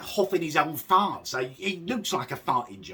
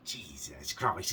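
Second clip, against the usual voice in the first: exasperated; 11 semitones lower, 6 dB quieter, slower than usual. Real, not acted. Reacting to the cheer.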